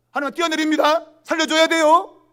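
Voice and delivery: high, loud mock threat to God; threatening ultimatum. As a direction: call it out, stretching the demand. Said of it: "협박하는 거예요". (큰 소리로 으름장 놓는 협박조)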